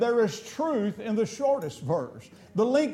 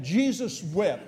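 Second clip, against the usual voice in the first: slow short recital; slower than usual. Shown as a demonstration. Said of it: "I just want a scripture".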